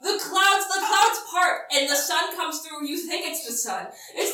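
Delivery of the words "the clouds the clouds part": P=A; slow epic emphasis. A narrator's reading.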